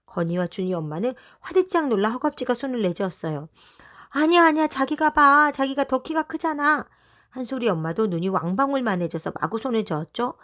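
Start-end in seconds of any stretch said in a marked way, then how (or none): 4.1-6.9 higher, louder flustered protest; flustered refusal. A narrator's reading. Twins' mom refusing to peek, flustered and higher. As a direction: wave it off in a panic.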